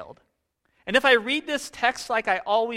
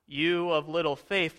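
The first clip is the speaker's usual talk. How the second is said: stern rebuke; 3 semitones lower than usual. Shown as a demonstration. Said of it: "what if we change the inflection".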